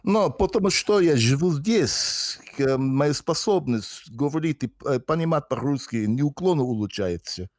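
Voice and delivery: fluent Russian with a heavy native Russian accent; real Russian accent in Russian; strong Russian accent. Real, not acted. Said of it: "more of a Russian accent in Russian than I do".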